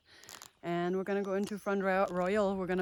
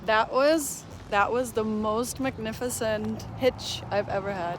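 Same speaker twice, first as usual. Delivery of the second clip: excited; 5 dB louder than usual. Real, not acted. Thrilled after hitchhike ride.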